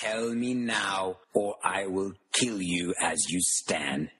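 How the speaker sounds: slow, lightly voiced threatening man; a slow, cold threat from a dark wizard; a hint of a villain demanding answers; menacing Death Eater. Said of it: "You hear a man speaking".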